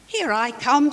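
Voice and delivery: joyful, eager reply; happy. Acted. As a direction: answer bursting with joy. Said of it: "happy as a splash".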